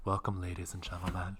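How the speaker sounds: put-on, sultry, welcoming host-like voice. Trying once more to greet the audience as the new host: sultry host voice. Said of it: "I'm gonna try one more time".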